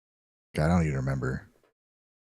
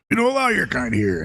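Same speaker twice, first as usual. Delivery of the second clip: owl voice; 11 semitones higher than usual. Acted. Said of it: "says the owl behind the bar".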